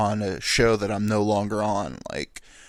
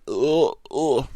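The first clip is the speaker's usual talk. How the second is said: repeated grunted ughs, raised pitch; straining grunt; 3 semitones higher, 4 dB louder than usual. Retold or imitated. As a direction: imitate straining on the toilet. Imitates straining over hammers.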